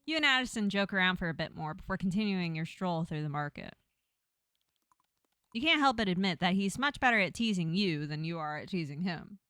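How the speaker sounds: measured second-person narration; story narration. A narrator's reading. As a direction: read the scene out like a storybook. Reads game narration aloud.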